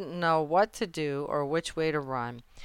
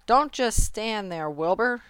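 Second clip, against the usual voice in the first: urgent, higher goose commands; raised, louder urging; crying out orders; 5 semitones higher, 6 dB louder than usual. A narrator's reading. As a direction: cry out orders like a bossy goose. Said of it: "cried the goose".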